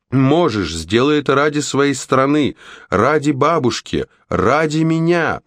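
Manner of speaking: high-pitched, building plea; rousing encouragement. A narrator's reading. Froggy tries to inspire Red to strike, rousing. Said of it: "попытался воодушевить её Фрогги".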